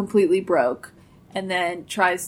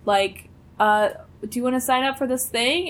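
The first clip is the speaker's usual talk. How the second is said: gushing fan voice; 5 semitones higher than usual. Retold or imitated. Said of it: "He's like".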